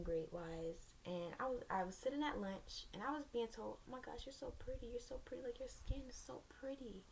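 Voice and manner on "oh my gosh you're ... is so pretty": soft, higher-pitched mock admiration; gushing compliment. Girls at lunch tell her she's pretty, gushing softly. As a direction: imitate an admirer, hushed and higher.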